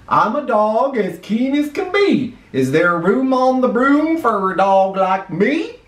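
keen storybook dog asking to join; eager dog. A narrator's reading. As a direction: plead hopefully as a keen dog. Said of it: "then eagerly said".

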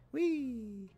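high, drawn-out flying whee; gleeful whee. Pretend. Player taking off to fly over for water, gleeful whee. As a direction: let out a playful whee.

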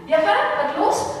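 loud, high, quick reply; young David answering his father Isai; eager son answering. Acted.

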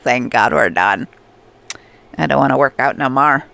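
lightly voiced, relieved villager grumble; imitating a tired villager. Player speaks for Marshall after exercise, lightly voiced grumble. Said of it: "He's like".

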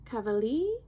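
"Cavalier" cut to "ka-va-LEE", rising; attempted French name. Shown as a demonstration. Vlogger trying out the perfumer's name, "Cavalier" said as "ka-va-lee". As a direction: try "Cavalier" ending on "lee", as a question. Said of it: "don't correct me".

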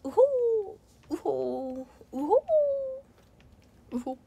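gorilla hoots. Acted. Gorilla gift.

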